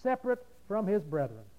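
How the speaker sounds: "separate" set apart for emphasis; measured emphasis on "separate", without raising the voice; stress on "separate". Shown as a demonstration. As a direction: repeat it deliberately, weighting "separate". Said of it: "I want to emphasize".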